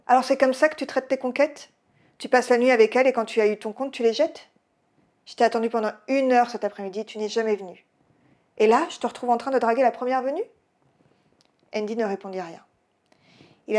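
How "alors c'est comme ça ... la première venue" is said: a scorned, tipsy woman confronting her lover; drunk fury. Acted. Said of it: "une fille en furie foncer sur Andy". (reproches furieux et éméchés, voix plus haute)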